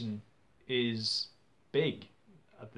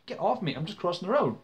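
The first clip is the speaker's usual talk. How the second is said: retold protest, voice pitched up; alarmed protest; 5 semitones higher, faster than usual. Grabbed pedestrian to his attacker, alarmed protest. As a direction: push back urgently, higher than usual.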